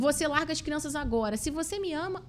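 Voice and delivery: high, demanding "se você me ama"; playing the partner who sets conditions; mock controlling partner. (imitando a parceira controladora, aguda e exigente)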